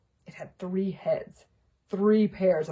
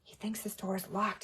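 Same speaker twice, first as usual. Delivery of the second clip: whispered; 2 semitones higher, 5 dB quieter than usual. Acted. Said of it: "Harry whispered".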